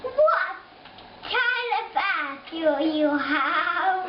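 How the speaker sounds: put-on playful child's English accent. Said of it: "Do an English accent".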